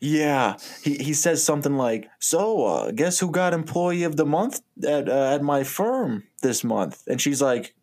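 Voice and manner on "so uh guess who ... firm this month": lightly put-on Italian-American braggart. Donnie boasting about his job to April, lightly Italian voice. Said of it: "I keep doing an Italian voice".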